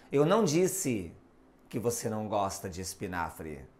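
"não" as the key word, tail thrown away; stress on não. Shown as a demonstration. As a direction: land on "não" and rush the tail down low. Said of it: "observe alterando ênfase, tom".

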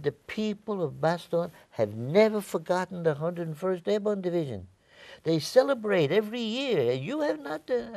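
high, insistent Belgian woman impersonation; climbing high imitation of her amazement; accented Belgian woman. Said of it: "had a, an accent when she spoke".

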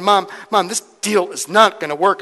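acted-out objection to mom; protesting son. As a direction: protest to your mother, emphatically. Voices son protesting to mother.

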